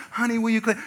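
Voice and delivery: sweet church-nice parent voice; mock-nice. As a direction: ask a child ever so nicely, mockingly. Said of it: "Y'all said it real nice".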